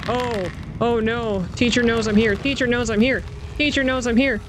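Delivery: building from worried to panicked; rising panic. Real, not acted.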